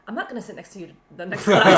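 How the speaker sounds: rushed quote collapsing into loud laughter; fast, laugh overtaking the words; breaking into laughter. Retold or imitated. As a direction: retell the grudge, losing it at the end. Retells friend's grudge, breaking into laughter.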